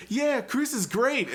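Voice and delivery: high, slow mock cheer; imitated cheering crowd. Retelling how everyone else joined in, mock cheer. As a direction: draw it out high like adoring fans. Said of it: "everyone else was like".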